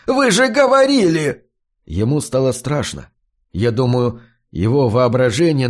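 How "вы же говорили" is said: shrill broken falsetto. A narrator's reading. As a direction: voice cracking very high in panic. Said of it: "ломаным фальцетом".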